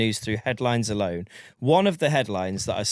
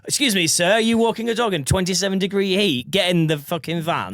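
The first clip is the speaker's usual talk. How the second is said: mock police officer; 6 semitones higher than usual. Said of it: "police scenario".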